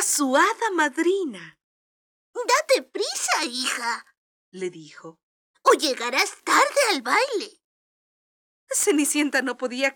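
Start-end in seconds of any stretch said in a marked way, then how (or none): 2.3-4.1 put-on high, slow kindly old voice; sweet old lady. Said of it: "una dulce viejecita de cara amable". 5.6-7.6 put-on sweet old lady. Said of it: "una dulce viejecita".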